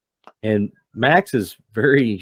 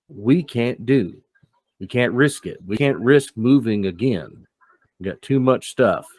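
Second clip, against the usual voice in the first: slow, measured refusal, a bit higher; firm Ruben; 3 semitones higher, slower than usual. Acted. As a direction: hold the line for the tribe, slowly. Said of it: "Ruben looks at him and goes".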